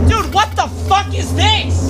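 freaked out. Real, not acted. Freaked out by monster.

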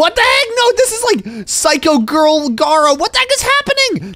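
high-pitched, panicked disbelief; freaked-out protest. Pretend. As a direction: let the voice shoot up in alarm. Freaked out by the crazy fan.

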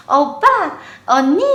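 lightly voiced little girl calling out; a hint of a small child greeting big kids; imitating toddler. (아이 흉내, 살짝 높게)

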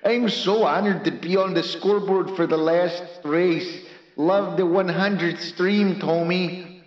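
put-on Dutch accent, a second attempt. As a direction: lean into a mock Dutch accent. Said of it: "Can you do a Dutch voice?".

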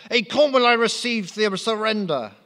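very high squeaky French voice; French accent. Acted. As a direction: pitch right up, comic Frenchman. Napoleon continues.

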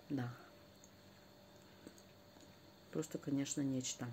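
chewing while talking; eating a sandwich; mouth full. Real, not acted. Seen 0: Bites sandwich, then talks with full cheeks while chewing.

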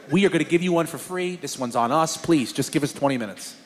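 low, hushed placating voice; apologetic pleading. Retold or imitated. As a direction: soothe an upset customer, soft and low. Apologetic pizza man, lower, softer.

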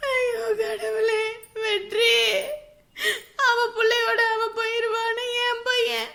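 slow sobbing call of a name; crying lament. Acted. Mother cries out for her son Vetri, sobbing. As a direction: cry his name into the empty house.

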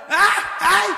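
high, loud startled shout; startled shriek. Retold or imitated. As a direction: shriek in fright at a tap on the shoulder. Bà già giật mình la lên. (la hoảng hốt thất thanh)

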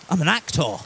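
fuller, stronger theatrical delivery; theatrical actor. Pretend. Streamer joking to chat he's an actor, theatrical. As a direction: announce it like a stage actor. Repeats line more theatrically.

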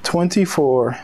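measured reading in separate phrases; deliberate preacher's Bible narration; scripture reading. Acted. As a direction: read it out phrase by phrase, with weighty pauses. Reads scripture aloud.

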